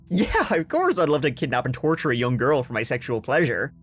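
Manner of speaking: mock sarcastic confession. Host voicing the accused woman's excuse, mock sarcastic. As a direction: imitate someone pretending to agree, heavy with irony. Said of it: "I said sarcastically".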